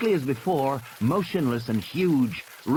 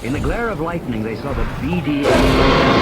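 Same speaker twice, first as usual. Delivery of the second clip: dramatic narration; 8 dB louder than usual. A narrator's reading. Suspense peak.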